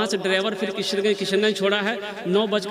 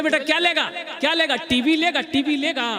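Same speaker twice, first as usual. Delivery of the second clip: higher, eager questioning voice; girl's father asking; 8 semitones higher than usual. Retold or imitated. Bride's father asks the boy about dowry, raised eager voice. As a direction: play the bride's father pressing the groom. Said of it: "तो बोले".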